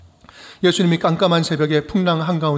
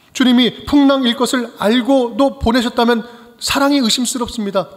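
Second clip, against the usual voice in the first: challenging question; 3 semitones higher than usual. Retold or imitated. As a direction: argue with the Lord, then sink into hurt. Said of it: "이렇게 따지는 거예요". (따지다가 낮게 가라앉는 목소리)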